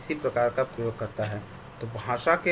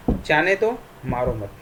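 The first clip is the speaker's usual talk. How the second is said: "जाने दो" ऊँचा, ज़ोरदार और चढ़ता, फिर "मारो मत" नीचे; "जाने दो" पर आवाज़ उठाकर रुकें, "मारो मत" पर गिराएँ; विराम का उदाहरण; 2 semitones higher, 4 dB louder than usual. Shown as a demonstration. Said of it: "ठहराव को विराम कहते हैं". ("जाने दो" पर बल, "मारो मत" उतरते स्वर में)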